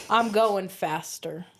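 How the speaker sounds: slow Southern kid imitation; drawled Southern boast; Southern accent. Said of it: "in his southern accent".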